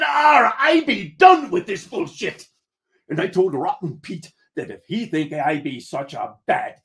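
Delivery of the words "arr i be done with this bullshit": high, loud exasperated pirate growl; explode, pitched well up; fed-up outburst. Acted. Captain quitting the argument with his first mate, loudly fed up.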